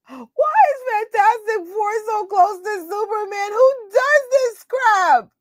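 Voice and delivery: mock wailing. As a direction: wail it like a heartbroken fan. Mock wailing about the movie.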